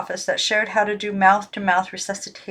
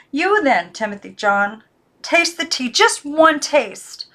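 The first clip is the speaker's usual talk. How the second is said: higher, louder, slow drawn-out plea; pleading; 6 semitones higher, 4 dB louder, slower than usual. Acted. Girl begs the boy doll, rising. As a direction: beg him to taste.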